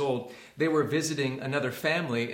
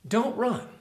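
retold yell; 7 semitones higher, slower than usual. Dog owner calling to a running boy, high retold yell. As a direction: call out a warning, held in. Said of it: "the owner yells out".

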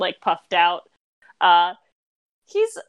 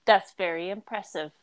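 restrained, unimpressed-sounding delivery; very flat. Acted. Boy checked by his mother's eye, very flat. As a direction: keep it level and contained. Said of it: "he says very flatly".

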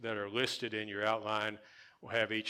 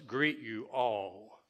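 slow greet you all, leaning on all; slow, emphatic greet you all; stress on all; much slower than usual. Shown as a demonstration. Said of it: "emphasizing that word all".

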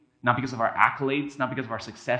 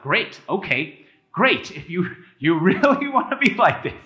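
exasperated sarcasm; 5 semitones higher, 5 dB louder than usual. Pretend. God's exasperated reply voiced.

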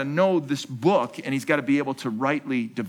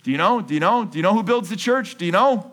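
rousing question; 7 semitones higher, 5 dB louder than usual. Real, not acted. Preacher quizzes congregation, rising.

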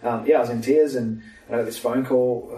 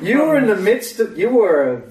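amazed retelling; 8 semitones higher, 6 dB louder than usual. Retold or imitated.

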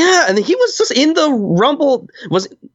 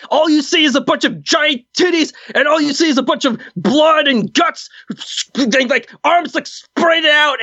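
hammed-up promo rant; wrestling promo. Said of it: "doing my promo voice".

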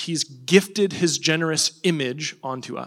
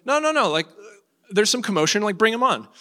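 intervening king; 6 semitones higher than usual. Acted. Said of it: "And then he, he goes".

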